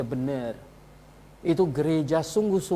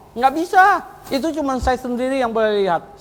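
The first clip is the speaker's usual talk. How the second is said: mock refusal; 6 semitones higher than usual. Mocking Joseph Smith's refusal.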